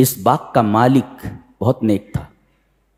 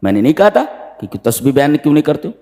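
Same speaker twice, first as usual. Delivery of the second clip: quick reproach; faster than usual. Retold or imitated. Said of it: "बीच वाले ने कहा".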